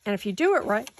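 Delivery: talking through hiccups; hiccuping mid-sentence. Real, not acted. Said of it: "excuse me, I have the hiccups".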